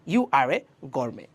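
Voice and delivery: You are a gourmet spoken very slowly, word by word; slow model sentence. Shown as a demonstration. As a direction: spell out the example slowly for learners. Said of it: "চাইলেই এই শব্দটা খুব বেশি ব্যবহার".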